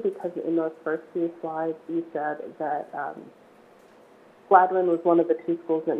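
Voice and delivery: hoarse, croaky voice; speaking through a frog in the throat. Real, not acted. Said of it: "I apologize for my odd voice".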